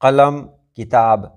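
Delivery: careful demo, q at the back in कलम, k in किताब; qaf versus kaf. Shown as a demonstration. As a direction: show the q in कलम against the k in किताब. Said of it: "कलम बोलेंगे तो अलग होगा".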